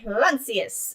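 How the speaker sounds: mock spell. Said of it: "pronunciation of the spell".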